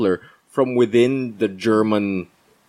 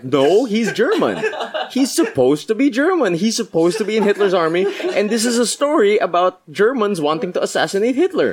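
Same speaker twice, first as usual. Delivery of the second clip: high, laughing protest; laughing disbelief; 7 semitones higher than usual. Retold or imitated. Retelling confusion at the actor playing a German, laughing disbelief. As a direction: rant incredulously through laughter, pitched up.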